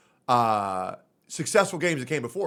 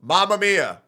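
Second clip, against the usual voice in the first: flat mock Mamma Mia; 2 semitones higher, 3 dB louder than usual. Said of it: "someone just going".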